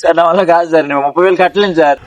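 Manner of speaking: pleading. Acted. Poor student begs the police officer over the fine, mock desperate. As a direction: rush out "sir, sir" like a frantic plea.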